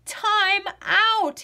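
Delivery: loud, high call of time out; shout. A narrator's reading. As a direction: yell it like a referee stopping play. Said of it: "he shouted".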